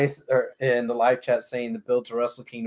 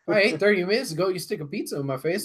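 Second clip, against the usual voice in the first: laughing; 6 semitones higher, 6 dB louder, faster than usual. Real, not acted. Joking about eating pizza.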